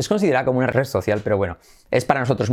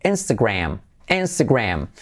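"Instagram" stressed on its first syllable; stress on INS. Shown as a demonstration. Teacher showing where the accent falls, first-syllable stress on "Instagram". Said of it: "el acento es como en la N".

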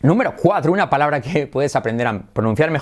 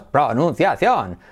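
bouncing PRO-NUN-CIA-CIÓN on "pronunciación"; accent each syllable of "pronunciación"; "pronunciación" with a peak on every syllable; every syllable stressed; slower than usual. Shown as a demonstration. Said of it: "como que se acentúan todas".

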